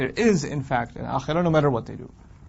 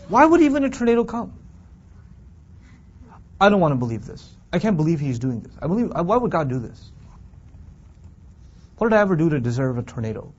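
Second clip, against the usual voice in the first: exaggerated whiny outrage at God; mock indignant complaining; 2 semitones higher than usual. Lecturer mimicking a complainer, mock indignant. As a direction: play the sulking victim, voice lifting.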